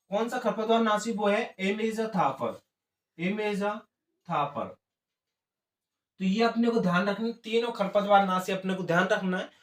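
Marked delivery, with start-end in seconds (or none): 1.6-4.6 "इमेजाथापर" drawn out very slowly; slow dictation. Real, not acted. Teacher repeating a herbicide name for note-takers, slow dictation. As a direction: repeat the term slowly, trailing softly.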